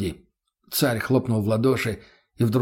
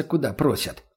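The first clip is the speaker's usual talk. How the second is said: ordinary delivery, nothing marked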